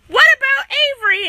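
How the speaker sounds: mock yell. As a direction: call out like a worried mom. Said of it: "My mom's yelling".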